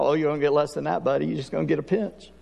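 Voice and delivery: quick, dry teasing; teasing reply. Retold or imitated. God answering the whiner, quick dry tease. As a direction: tease the complainer, fast.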